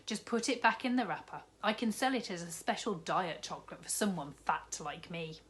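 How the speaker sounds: a jolly newsagent, lightly voiced, cheerful; kindly shopkeeper. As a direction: play the big jolly shopkeeper, bargaining kindly. Raj figure voice.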